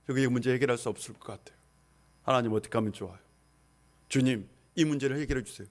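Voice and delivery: soft, low, quick mock prayer; praying quietly. Pastor acts out his own quiet prayer to God. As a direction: murmur it like a private prayer. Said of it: "기도해요".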